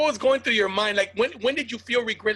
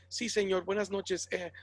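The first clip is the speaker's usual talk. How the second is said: put-on choir boy voice. Shown as a demonstration. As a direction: sweet-talk the girl's father politely. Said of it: "Did you ever do the choir boy voice?".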